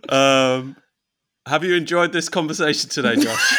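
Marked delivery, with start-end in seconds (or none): 1.5-3.6 loud, laughing presenter question; playful host voice to Josh; mock host. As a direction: ham it up like a chat show host asking the guest.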